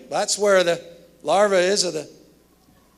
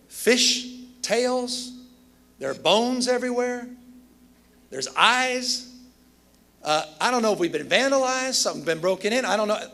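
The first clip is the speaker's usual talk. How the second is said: panicked engineer; 4 semitones higher than usual. Retold or imitated. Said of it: "He called me down in San Francisco in a panic".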